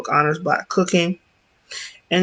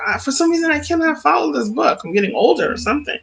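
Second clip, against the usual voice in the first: quoting myself; 9 semitones higher, faster than usual. Retold or imitated. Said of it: "and I was like".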